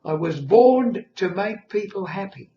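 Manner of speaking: put-on high, loud baby voice. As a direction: announce it like a solemn newborn. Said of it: "in this baby voice".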